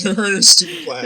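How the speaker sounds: high, laughing jab at the plans; laughing scorn. Real, not acted. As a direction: laugh through a mocking jab.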